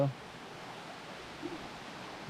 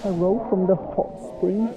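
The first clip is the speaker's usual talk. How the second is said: higher, slow, bright greeting; vlog greeting; 6 semitones higher, 4 dB louder, slower than usual. Real, not acted. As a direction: greet the camera. Greeting to camera.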